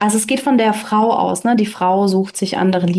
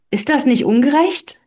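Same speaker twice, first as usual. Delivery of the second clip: protesting; 4 semitones higher than usual. Acted. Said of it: "wollte Hans protestieren".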